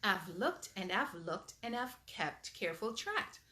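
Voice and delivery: lively storybook reading aloud; animated read-aloud for little kids; reading to children. Acted. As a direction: read it like bedtime story time. Reads picture book aloud.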